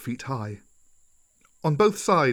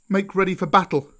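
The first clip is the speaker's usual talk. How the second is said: higher, rousing battle call; excited cry; 7 semitones higher, 4 dB louder than usual. Acted. Mowgli calls the pack to battle, excited cry. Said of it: "cried Mowgli".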